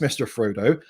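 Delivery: lightly voiced West Country hobbit accent; a touch of rural Glastonbury accent; Sam Gamgee. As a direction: slip into a mild West Country burr. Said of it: "the way he talks a bit like this".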